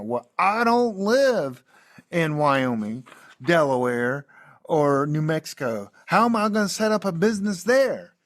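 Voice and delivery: put-on Southern redneck accent asking how it's possible. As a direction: play the skeptical country boy from the sticks. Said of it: "That's my redneck voice".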